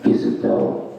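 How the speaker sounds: very low, voiceless rasping inner voice; inner monologue. Acted. Inner monologue taunting the comic about old insecurities, low raspy whisper. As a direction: needle him in a deep, whispery rasp. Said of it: "conversation with me and my inner monologue".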